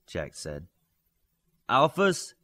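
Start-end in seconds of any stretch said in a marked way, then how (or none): 1.7-2.3 higher, louder call across the pit; calling out loudly. A narrator's reading. Coach calling the alphas to attention, loud shout. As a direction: summon the team with a shout. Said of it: "Coach Hansen said loudly".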